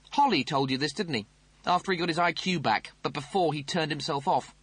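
high, snooty officer voice; pompous Rimmer voice. Acted. Rimmer accuses.

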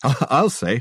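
amused snort, voice lifted. A narrator's reading. Reg agreeing about Coleridge on laudanum, snorting. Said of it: "snorted Reg".

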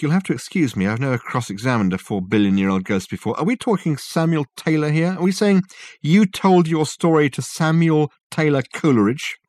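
high-pitched, disbelieving questions; incredulous interrogator. A narrator's reading. Dirk cross-examining an ancient ghost, incredulous.

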